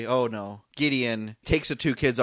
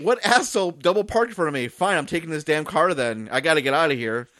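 mildly acted exasperated grumbling; a touch of hammed-up annoyance; mock irritation; 2 semitones higher than usual. Robber finding his car blocked, mock exasperation.

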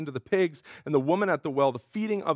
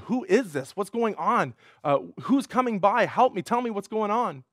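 anxious questioning; 4 semitones higher than usual. Retold or imitated. Blind man calling from roadside.

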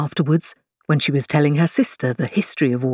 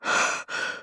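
gasp; 8 dB quieter than usual. A narrator's reading. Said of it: "out of breath".

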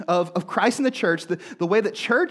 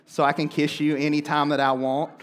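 put-on lightly country-accented movie quote, lower pitch; 6 semitones lower than usual. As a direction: recite it with a hint of country accent. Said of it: "you've gotta break out the country accent".

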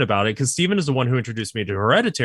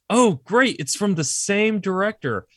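upbeat, higher-pitched mock enthusiasm; retold eager anticipation; 4 semitones higher than usual. Retelling hearing of the same director's movie, eager. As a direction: build up the hype, lightly hammed-up. Voicing own anticipation before the letdown.

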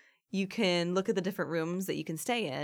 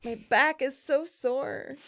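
stretching groan; 8 semitones higher, slower than usual. Real, not acted. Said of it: "I'm stretching".

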